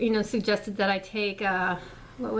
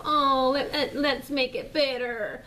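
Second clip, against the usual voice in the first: mock kumbaya liberal; 3 semitones higher, slower than usual. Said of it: "they go".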